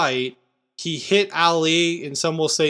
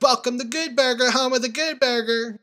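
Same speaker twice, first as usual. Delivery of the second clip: high, sing-song Good Burger greeting; Good Burger impression; 8 semitones higher than usual. Dad quotes the movie at the theater, in a high sing-song voice. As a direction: chirp it like the Good Burger cashier. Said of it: "I was like".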